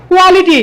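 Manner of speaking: "কোয়ালিটি" with plain k and t; no puff of air in "কোয়ালিটি". Shown as a demonstration. Teacher showing how we read quality before, unaspirated. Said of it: "পড়ে আসছি".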